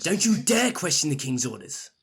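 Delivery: indignant, emphatic cut-in; stern rebuke. Acted. Lord silencing a subordinate who questions orders, sternly indignant. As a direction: cut him off with a touch of anger.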